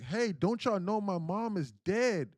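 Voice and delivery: loud, high, drawn-out anguished cry; acting out a desperate scream; retold scream. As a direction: cry out to people who won't listen, slow and loud. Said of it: "And he screamed, he was like".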